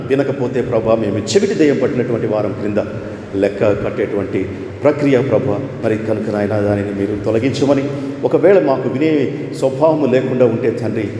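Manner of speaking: low, reverent prayer voice; spoken congregational prayer; closing prayer. Acted.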